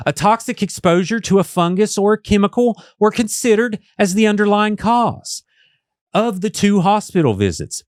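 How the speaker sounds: lightly put-on telemarketer read. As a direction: read it like a phone sales script. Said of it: "I'm gonna do my telemarketer voice".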